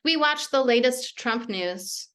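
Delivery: measured, even poem reading; poetry reading. Acted. Poet reading her poems to the audience, measured. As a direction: let each image land with a small pause.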